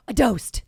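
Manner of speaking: GHOST said as "doast"; childish "doast" for ghost; child's speech impediment. Retold or imitated. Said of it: "talking like a four-year-old child with a speech impediment".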